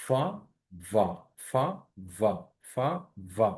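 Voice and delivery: ফা airy, ভা buzzing, turn by turn; alternating F and V. Shown as a demonstration. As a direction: separate syllables, ফা then ভা, as a drill. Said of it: "এই দুইটা উচ্চারণ কিন্তু almost same".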